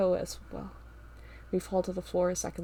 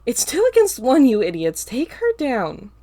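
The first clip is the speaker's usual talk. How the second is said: loud barked order; commanding shout; 5 semitones higher, 12 dB louder than usual. A narrator's reading. Ava orders the pair to attack, loud command. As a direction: command them loudly. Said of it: "Ava's voice rang out".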